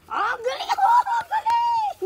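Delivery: high laughing praise for a dog. Real, not acted. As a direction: squeal praise through laughter. (tumatawang papuri)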